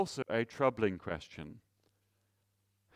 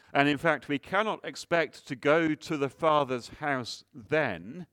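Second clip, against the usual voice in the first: forceful preaching; 3 semitones higher, 5 dB louder than usual. Acted. Preaching emphasis.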